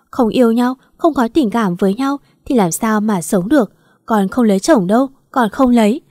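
sobbing refusal. Acted. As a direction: cry out that you won't marry. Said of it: "Nó khóc nấc lên nhìn bố". (khóc nấc, gào lên phản đối)

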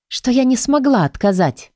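ordinary delivery, nothing marked

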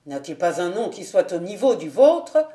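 the captain taunting her about the suitor's name; still mocking. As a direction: needle her with scorn. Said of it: "raillant toujours".

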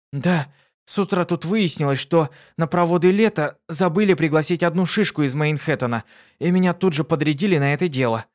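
высокий бойкий девичий голос; звонко и живо, как юная пегаска; бойкая пегаска. Acted. Дитси рассказывает, высокий голос. (Дитси рассказывает другу, высоко и бойко)

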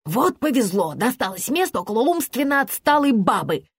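sarcastic, irritated grumble; mildly hissed scorn; hissing complaint. A narrator's reading. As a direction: complain bitterly about a neighbour. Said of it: "прошипела тётка".

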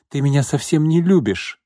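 fiancée crying out that he doesn't love her, hysterical. A narrator's reading. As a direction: wail it at him. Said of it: "истерично крикнула Марго".

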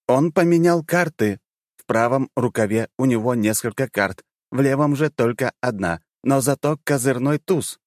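high urgent yell; yelling in head. Acted. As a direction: shout the warning fast. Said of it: "завопил в моей голове".

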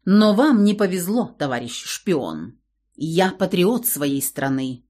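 slow, solemn mock seriousness; straight-faced and unhurried; deadpan. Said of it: "Очень спокойно и уверенно несла она чушь".

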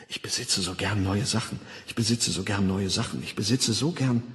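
drip the words into a sleeper's ear; hypnopaedic slogan. Acted. Schlafschul-Suggestion, wiederholt. (leise, monoton wiederholte Einflüsterung)

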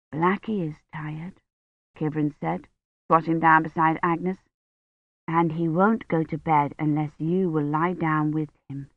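soft, gentle coaxing. Acted. Kivrin coaxes Agnes to bed, softly. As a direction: soothe a tired child.

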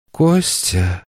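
usual speaking voice

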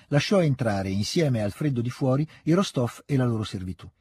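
measured reading of a classic novel; story narration. A narrator's reading. Reading novel aloud over music. (lettura narrativa pacata)

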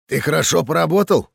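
quick, lifted and eager; enthusiastic. Acted. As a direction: say it with delight. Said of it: "восторженно сказал Чингис".

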